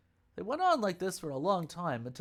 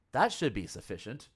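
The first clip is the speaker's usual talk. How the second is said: dry, louder sarcastic remark; 3 semitones lower, 5 dB louder than usual. Acted. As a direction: say it with a sneer of mock satisfaction. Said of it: "I said that sarcastically".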